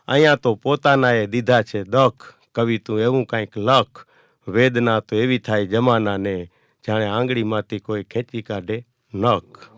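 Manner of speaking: slow, sorrowful verse delivery; poem recitation. Acted. Poet reciting a painful poem to the audience, slow sorrowful recital. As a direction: recite each line slowly, full of pain.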